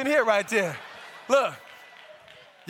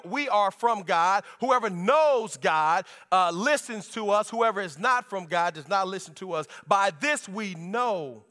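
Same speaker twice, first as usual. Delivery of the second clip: scripture reading; 2 semitones lower than usual. Acted. Pastor reading the Bible passage aloud to the church. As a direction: read the verses with weight.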